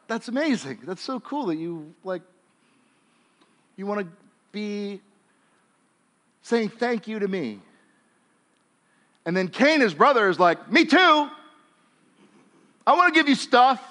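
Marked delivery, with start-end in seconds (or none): 0.1-7.6 God voiced softly, delighted; a gentle, quiet God thanking Abel; pleased God. God answers Abel's offering. 10.7-13.9 higher, louder mock-eager Cain; eager copycat. Cain copying his brother.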